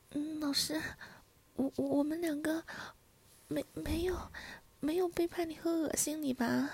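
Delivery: hesitant, stuttering denial; nervous stammer. Acted. Student denying betrayal to an angry teacher, nervous stammer. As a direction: stumble over the first words of each phrase.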